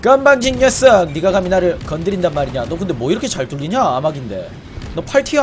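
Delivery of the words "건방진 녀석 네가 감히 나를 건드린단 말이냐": enraged boss roar. Pretend. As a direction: bellow it like an offended boss. Mock villain line in game.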